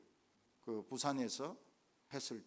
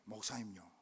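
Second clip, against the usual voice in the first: low, softer Gyeongsang address; Gyeongsang dialect; 8 semitones lower, 9 dB quieter than usual. Retold or imitated. Elder calling the pastor, quiet Gyeongsang dialect. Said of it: "이렇게 이야기합니다".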